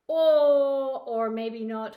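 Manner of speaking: loud burst of surprise; sudden realization. Real, not acted. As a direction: suddenly catch yourself. Sudden change of mind.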